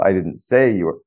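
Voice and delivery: "say" punched with a falling tune; stress on SAY. Shown as a demonstration. Demonstrating to the guest how stress shifts meaning, "say" stressed. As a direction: lean on "say", as if hinting at something else. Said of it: "put the emphasis on each of the six words".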